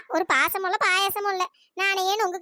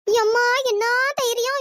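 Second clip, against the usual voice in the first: amazed; 4 dB louder, slower than usual. Acted. Amazed at her climbing.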